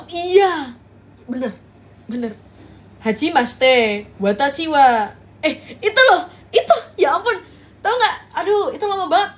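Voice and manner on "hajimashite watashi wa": thick Japanese accent. Shown as a demonstration. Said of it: "medoknya ngajak berantem".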